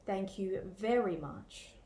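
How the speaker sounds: dry, flat-toned thank you very much; sarcastic. Shown as a demonstration. Teacher showing a sarcastic thank you, dry. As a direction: say thanks but mean the opposite. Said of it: "the second example is sarcastic".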